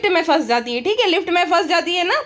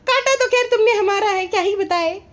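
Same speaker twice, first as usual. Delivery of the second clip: much higher, syrupy put-on wife voice; mock sweet wife; 5 semitones higher than usual. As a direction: coo it like a doting vlogger. Wife voice again.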